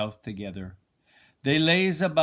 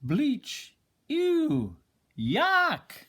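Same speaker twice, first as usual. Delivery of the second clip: disgusted; 13 semitones higher, much slower than usual. Acted. Bruce disgusted at hard work.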